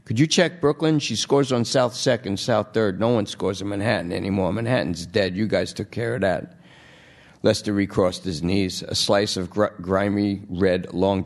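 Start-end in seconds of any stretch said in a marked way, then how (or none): 0.1-6.6 junkie voice. Acted. Lester pleads.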